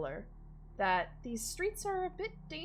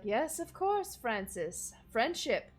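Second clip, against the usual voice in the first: dry, weary agreement; mildly exasperated butler; eye-rolling servant; 3 semitones higher, 6 dB louder than usual. Acted. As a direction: humour the boss. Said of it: "Clarence rolls his eyes and he's like".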